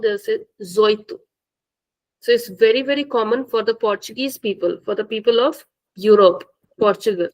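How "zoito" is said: zoito with no de; casual clipped form; dropped de. Shown as a demonstration. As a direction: clip dezoito to zoito. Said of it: "They'll not say dezoito".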